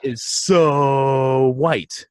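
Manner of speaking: very slow, high, drawn-out gush; imitating the coworker's adoring coo. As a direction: savor each word like adoring the baby. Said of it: "She said".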